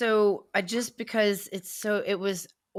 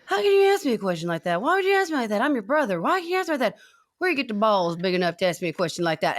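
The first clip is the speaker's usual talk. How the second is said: impersonating the auditioner; faster than usual. Retold or imitated. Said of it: "The only thing he's like".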